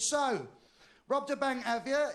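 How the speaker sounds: high-pitched, confrontational questioning; accusing sheriff. Acted. Sheriff to driver over the car hood, accusing. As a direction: play a sheriff confronting his suspect.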